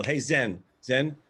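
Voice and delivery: calling out over the music to the bartender; loud call for a drink; yelling across the bar. Retold or imitated. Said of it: "And I yell".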